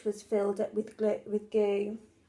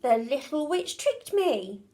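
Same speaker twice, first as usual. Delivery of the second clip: cross dragon; 4 semitones higher than usual. Acted.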